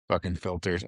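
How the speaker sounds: "Fucking filtered" laughed out, amused at himself; laughing. Real, not acted. Laughing at his own word choice while telling the vet story. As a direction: chuckle through it at your own odd word.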